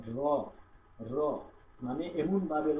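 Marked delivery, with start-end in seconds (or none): 0.1-1.2 র with tongue tip lightly trembling at the palate; trilled r. Shown as a demonstration. Teacher demonstrates র, tongue lightly trilled on the palate. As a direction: roll র lightly against the palate. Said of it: "জিহ্বাটা ওই ভিতরে কাঁপাকাঁপি করবে".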